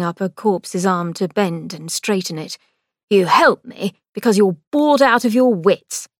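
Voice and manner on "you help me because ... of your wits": louder, lightly voiced brother; Victor, needling. A narrator's reading. Brother needling sister, mocking. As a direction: jab at her motives.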